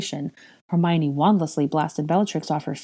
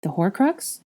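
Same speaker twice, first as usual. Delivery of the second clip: tentative guess, rising; musing query; thoughtful; 3 semitones higher, slower than usual. Acted. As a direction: offer an idea as a question. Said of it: "Harry said thoughtfully".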